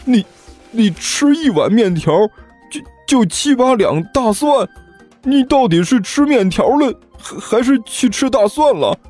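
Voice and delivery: high-pitched stammering rant; aghast disbelief. Acted. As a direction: squeal your outrage, tripping over the words. Aghast at the garlic eater. (难以置信地尖声质问)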